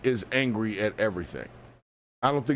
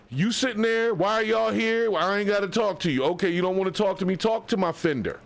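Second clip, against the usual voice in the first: high, sassy mock voice of the driver; mocking the angry lady; 6 semitones higher than usual. Mocking the driver's attitude for the chat, in a high put-on voice. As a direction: put on the rude lady's voice, pitched way up. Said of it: "is her way of thinking".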